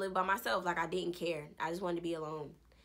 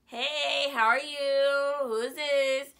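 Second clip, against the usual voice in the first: mock bright phone greeting; 6 semitones higher, 5 dB louder, slower than usual. Answering unknown caller brightly.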